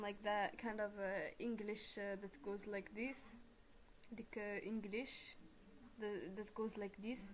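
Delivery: English with a put-on Arab-coded accent. Shown as a demonstration. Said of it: "Arab coded".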